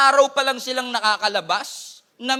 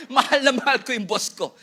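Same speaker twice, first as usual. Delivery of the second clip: mock loving. Mock answer about boss.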